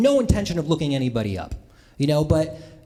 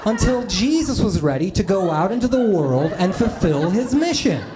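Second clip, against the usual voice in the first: slow, mock-solemn recital; slower than usual. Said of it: "explained to me like this".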